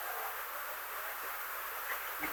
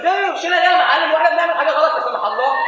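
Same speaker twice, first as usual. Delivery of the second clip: indignant protest; 3 semitones higher, 3 dB louder than usual. Acted. Protesting the boss's plan.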